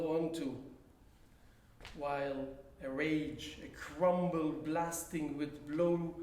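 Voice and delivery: slow, measured poem recital with long pauses; poetry reading. Acted. Poet reads own handwritten poem to an audience, measured recital. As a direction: recite deliberately, letting each phrase hang before the next.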